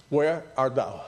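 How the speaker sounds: gentle question. Retold or imitated. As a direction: ask it tenderly, like a caring father. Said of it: "what he says".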